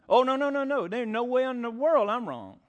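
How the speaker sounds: high, loud mock protest; adamant denial. Preacher imitating someone told they might be wrong, adamant.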